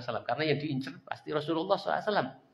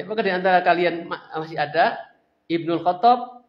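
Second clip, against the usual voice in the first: called taunt; 3 semitones higher, 6 dB louder than usual. Acted. Abu Sufyan calling out again.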